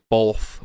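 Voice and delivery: "both" with an L sound slipped in before the th; "both" pronounced bolth. Shown as a demonstration. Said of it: "say both with an L".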